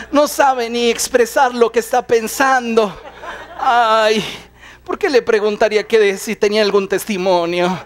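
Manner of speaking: exasperated muttering broken by laughter; mock fretting, half-laughing; impatient aside. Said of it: "Y Jairo".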